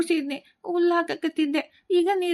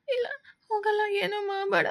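softer, tearful begging; crying plea; 4 semitones higher, 4 dB quieter than usual. Acted. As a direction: plead through sobs not to be hurt. Boy pleading with stepmother. (ಅಳುತ್ತಾ ಬೇಡಿಕೆ)

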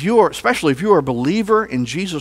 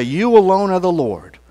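leading a group declaration. Shown as a demonstration. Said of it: "I would like for us all together to say".

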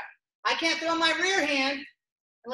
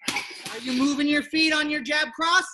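shouting to student; 3 dB louder than usual. Real, not acted.

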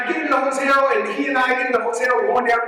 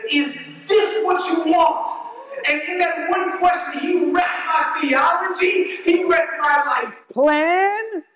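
high, slow, drawn-out sermon delivery; emphatic preaching; 6 semitones higher, slower than usual. Real, not acted. Preacher telling how the bishop's question wrecked old plans, slow fervent preaching. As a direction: stretch each phrase for weight.

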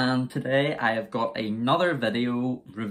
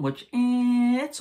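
unimpressed; 13 semitones higher, 4 dB louder, slower than usual. Real, not acted. Unimpressed by Monster Ultra watermelon.

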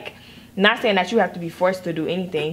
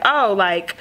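mock white girl greeting; 4 semitones higher, much slower than usual. White person greeting a black woman, hammed-up over-friendly. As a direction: play an outsider trying too hard to sound cool. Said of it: "a white person came up to you and was like".

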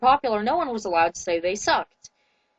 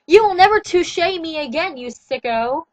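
higher, louder furious cry; wailed; 5 semitones higher, 4 dB louder than usual. Acted. Girl slapping Edward in the car, higher louder furious wail. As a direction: hurl it at him as you lash out. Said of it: "I wailed".

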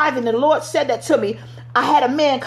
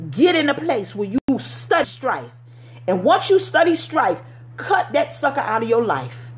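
preaching. Real, not acted. Preacher exhorting the congregation.

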